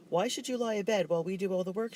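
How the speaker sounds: irritated sister demanding he get up. A narrator's reading. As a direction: scold him for lying abed. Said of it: "she demanded".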